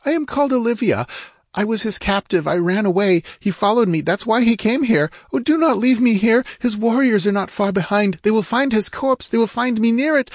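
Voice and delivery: very high, fast frightened pleading; terrified pleading woman. A narrator's reading. Captive woman begging the barbarian, terrified pleading. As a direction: beg breathlessly in terror. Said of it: "She moaned in her terror".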